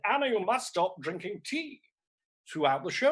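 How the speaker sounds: a touch of exasperated telling-off; retold mild anger. Imitating husband scolding her mid-Hamlet, mildly angry. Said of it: "he got very angry".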